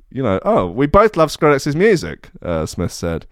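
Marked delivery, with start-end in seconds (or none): 0.4-2.3 high-pitched, hammed-up Birmingham accent; Brum accent. Reading out Smith's quote about his sideboard love, in a Brum accent. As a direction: quote him in a rough attempt at Brummie. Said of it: "my Brum accent was more".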